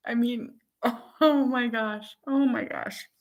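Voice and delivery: high, laughing exasperation. Real, not acted. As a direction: talk through real laughter. Laughing at her own story.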